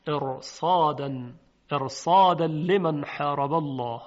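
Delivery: ارصادن said slowly with a heavy R; heavy tafkhim R. Shown as a demonstration. Teacher demonstrates tafkhim before the recitation, heavy R in ارصادن. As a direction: thicken the ر in ارصادن and ارصادا, vowels drawn out.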